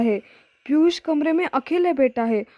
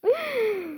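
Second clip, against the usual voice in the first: a short amused chuckle, soft; light laugh; 10 semitones higher, 5 dB quieter than usual. A narrator's reading. Rahul brushing off his friend's fear, soft chuckle. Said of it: "Rahul मुस्कुराकर कहता है".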